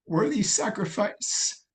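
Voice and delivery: slow, high, hushed divine voice; Holy Ghost's words. Retold or imitated. The Holy Ghost comforting the grieving narrator, slow and hushed. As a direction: say it slowly like a voice from heaven. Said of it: "He told me".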